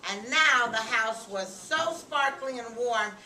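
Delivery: animated, measured storytelling voice; reading to children. A narrator's reading. Narrator tells children of latkes and candles, animated storytelling. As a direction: read the happy ending to young listeners.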